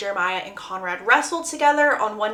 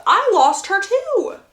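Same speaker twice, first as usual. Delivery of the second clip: pained father; 10 semitones higher, 6 dB louder, slower than usual. Acted. Father defending himself in argument.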